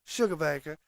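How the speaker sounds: a light southern drawl on Sugarbaker, stretched out. Retold or imitated. Host imitating a TV character's southern drawl. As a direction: say Sugarbaker like a Southern belle, drawn out. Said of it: "it's that southern drawl".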